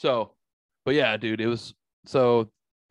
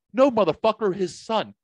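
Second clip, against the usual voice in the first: exasperated; 9 semitones higher, 4 dB louder than usual. Retold or imitated. Correcting friend's mistake.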